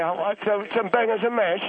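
mock-Cockney singer, lightly put on. Aunt showing off her church social impression, mock Cockney. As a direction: do a broad, crude London accent imitation. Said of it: "I'm gonna do an impression".

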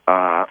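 computer sound. Acted. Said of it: "that was you making the sound of a computer".

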